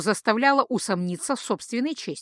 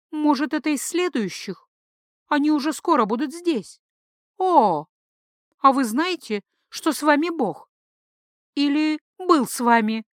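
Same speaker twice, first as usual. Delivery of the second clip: changed, blurred voice; 5 semitones higher than usual. Acted. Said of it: "Голос у жрицы изменился, стал менее чёток".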